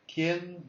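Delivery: quién rising high at the end; rising question tune. Shown as a demonstration. Teacher showing students the question tune, rising pitch. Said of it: "so it goes up in pitch".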